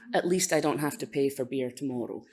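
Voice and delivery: low, understated deadpan joke; dry gallows humour. Acted. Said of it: "dry gallows sense of humour".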